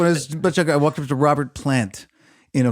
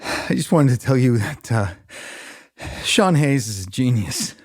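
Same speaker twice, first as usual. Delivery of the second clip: winded fan; 2 semitones lower than usual. Retold or imitated. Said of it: "and he bent over".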